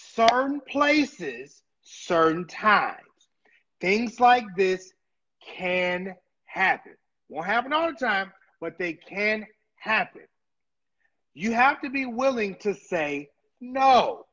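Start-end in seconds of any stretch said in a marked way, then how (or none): 0.2-7.0 spelled out word by word, very slow, deliberate. Speaker repeats a point to listeners, saying it very slowly. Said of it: "Let me say it real slow".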